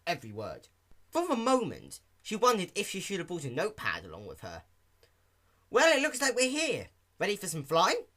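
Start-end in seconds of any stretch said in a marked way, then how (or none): 5.7-8.1 high, loud, eager pony; bursting to start flying; Rainbow Dash voice. Acted. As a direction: Dash arriving at her practice spot, eager and loud.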